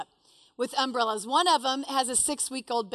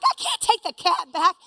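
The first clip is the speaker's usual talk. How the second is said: raised, higher-pitched objection; loud protest; 4 semitones higher, 5 dB louder than usual. Retold or imitated. Woman arguing with friend over clawing cat, protesting loudly. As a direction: protest back over the commotion.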